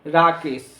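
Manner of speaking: राकेश as one unbroken word. Shown as a demonstration. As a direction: say राकेश in a single go, no break. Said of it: "आप एक ही बार में बोलते हैं". (राकेश एक ही बार में, बिना तोड़े)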